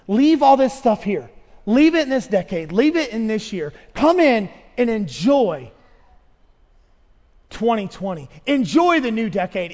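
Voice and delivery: rising to a loud, slow invitation; inviting God. Pretend. God inviting his people in, building loud. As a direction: welcome them in, swelling. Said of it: "He's saying the same thing".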